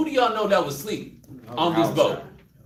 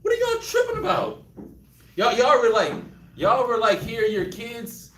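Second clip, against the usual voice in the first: puzzled Jesus. Retold or imitated. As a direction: ask what all the fuss is. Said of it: "He's like".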